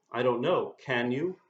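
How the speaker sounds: mildly sarcastic, pointed questioning; understated sarcasm, feigning puzzlement; mock sarcastic teacher. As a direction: play the stickler teacher, lightly sarcastic.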